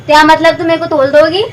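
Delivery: lisped mock-hurt question; childish indignant lisp; put-on lisp. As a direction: ask in fake baby talk, R softened to L. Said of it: "तोतली है".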